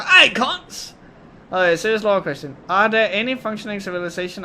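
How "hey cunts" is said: high, loud Aussie greeting; broad Australian accent. Acted. Streamer opening story readings as an Australian vlogger, exaggerated Australian accent. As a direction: burst into a hammed-up Australian hail. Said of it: "best Australian accent".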